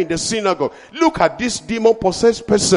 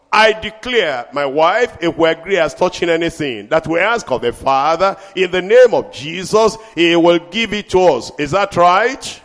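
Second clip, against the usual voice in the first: preaching at full force. Acted. Preacher declaring victory to the church, full force. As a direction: proclaim it over the congregation.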